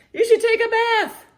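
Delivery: piping up like an eager little animal; high squeaky animal. Acted. A small animal urging the grumpy monkey, squeaky and high.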